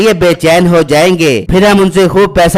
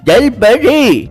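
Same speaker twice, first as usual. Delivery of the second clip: a slow, drawn-out, higher "jal pari?" in wonder; surprised; 5 semitones higher, much slower than usual. Acted. Villager, amazed at news of the mermaid, slow and higher. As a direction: stretch it out, amazed and hooked.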